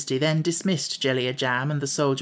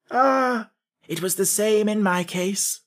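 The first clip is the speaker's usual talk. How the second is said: higher-pitched, agreeable reply; pleasant; 6 semitones higher, slower than usual. A narrator's reading. King sharing common ground with Jack, pleasantly. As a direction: show friendly fellow feeling. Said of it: "said the king pleasantly".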